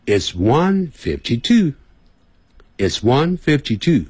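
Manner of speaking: slow, deliberate "It's one fifty-two", ONE drawn out; measured teacher's reading with a pause between repeats; slow number demonstration. Shown as a demonstration. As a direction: model "one fifty-two" slowly for learners. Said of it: "或者直接念数字".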